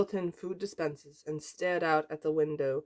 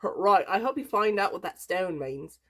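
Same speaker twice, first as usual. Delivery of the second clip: put-on botched Australian accent; loose, unconvincing Australian accent; Australian accent attempt; 4 semitones higher, 4 dB louder than usual. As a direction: try an Australian accent, not quite landing. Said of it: "make her Australian now".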